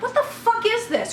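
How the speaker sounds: retold outrage, pitched high; indignant demand. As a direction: confront them in disbelief. Retold angry phone call.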